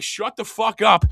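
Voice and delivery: loud, high, drawn-out command; forceful telling-off. Acted. Host acting out silencing the overconfident, forceful telling-off.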